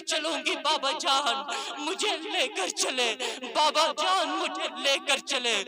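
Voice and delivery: put-on pleading child. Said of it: "بار بار اصرار کرتی ہے".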